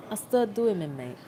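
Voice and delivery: lightly put-on British accent; amateur British accent, half-joking; mock British accent. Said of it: "speak in a British accent".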